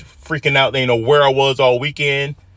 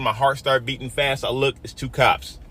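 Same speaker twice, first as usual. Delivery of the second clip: usual speaking voice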